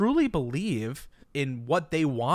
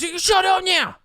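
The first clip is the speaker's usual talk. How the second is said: high-pitched Southern yell, hammed up; Southern accent; 8 dB louder than usual. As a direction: shout it like an angry Southern redneck. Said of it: "the best Southern accent I can give you".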